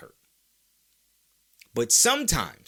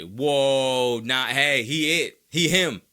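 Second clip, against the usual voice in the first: loud crowd hype, climbing higher; hyped-up fans; 4 semitones higher, 6 dB louder than usual. Acted. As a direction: build from amazed whoa to high, loud chanting. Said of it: "everybody to say".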